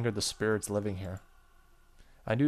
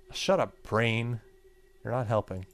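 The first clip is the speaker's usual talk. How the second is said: laughing scold; 4 dB louder than usual. Real, not acted. Scolding own thoughts with laugh.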